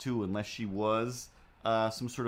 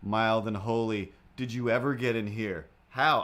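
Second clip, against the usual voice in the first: astonished at cat. Real, not acted. Finding hidden cat in drawers.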